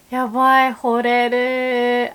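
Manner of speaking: smitten exclamation. Shown as a demonstration. Friend admiring her outfit, loud and swooning. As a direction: swoon over a friend's look. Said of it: "quite common to say".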